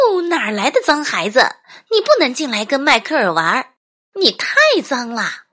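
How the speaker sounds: high, fast scolding mother; mother crying out. A narrator's reading. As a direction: shoo off a dirty child, quick and high. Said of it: "妈妈打开门叫道". (又快又高地叫嚷的妈妈)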